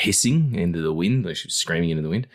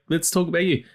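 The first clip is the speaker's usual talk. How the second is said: mock polite; 10 semitones higher than usual. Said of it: "It's like".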